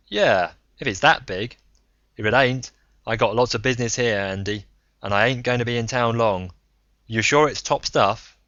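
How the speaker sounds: a rough self-made man ribbing him; Braun, gruff old gambler. Acted. Braun on the phone.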